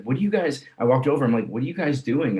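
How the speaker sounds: high puzzled question; surprised. Retold or imitated. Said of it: "I was like".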